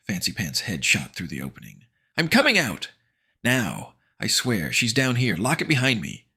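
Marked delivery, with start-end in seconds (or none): 2.2-6.3 higher, louder scared plea; frightened boy; pleading. Acted. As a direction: beg to come out. Terrified boy emerging.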